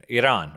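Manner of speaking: Iran said ee-RAHN, open ah; Iran as ee-RAHN, careful correction; Iran with ee first and a broad rahn; corrected Iran. Shown as a demonstration. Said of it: "I'm an American".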